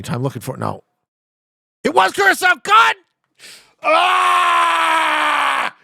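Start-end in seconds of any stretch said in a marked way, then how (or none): 1.8-3.0 high, loud yell of frustration; frustrated shout. Real, not acted. Guess was wrong, frustrated outburst. 3.8-5.7 long, high, loud cry of frustration; anguished shout. Real, not acted. After losing the round.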